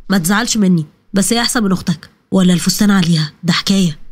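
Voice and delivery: put-on a young man caught off guard by a pretty girl; lightly voiced smitten man.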